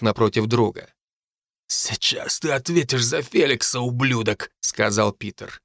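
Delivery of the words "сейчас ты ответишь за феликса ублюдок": held-back villainous threat in a changed voice; understated menace; menacing threat. A narrator's reading. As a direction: promise revenge, keeping it controlled. Peter threatens narrator before duel.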